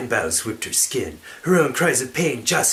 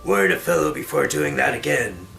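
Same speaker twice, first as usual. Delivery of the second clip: hammy stage actor; 3 semitones higher, 5 dB louder than usual. Acted. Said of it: "Warren said".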